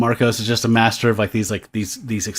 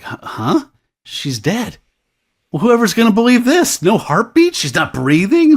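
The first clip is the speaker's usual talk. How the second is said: high, louder panicked disbelief; hammed-up shock over the body; a frantic, high-pitched whine; mock disbelief; 11 semitones higher, 4 dB louder than usual. Voicing the shocked guy.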